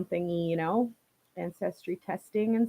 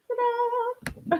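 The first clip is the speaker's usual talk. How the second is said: playful ta-da; 14 semitones higher, 3 dB quieter than usual. Real, not acted. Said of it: "showing off her dress".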